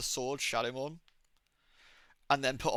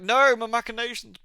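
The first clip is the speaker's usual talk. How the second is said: hammed-up villain wailing, higher and louder; mock villain cry; 7 semitones higher, 7 dB louder than usual. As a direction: ham up a defeated villain's cry. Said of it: "and he's like".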